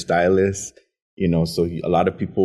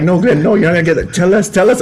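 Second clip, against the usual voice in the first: high, loud teasing chorus; pushy coworkers; 11 semitones higher, 9 dB louder, faster than usual. Retold or imitated. Teacher friends pressing Glenn, high loud teasing. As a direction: badger him to spill it. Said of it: "They're like".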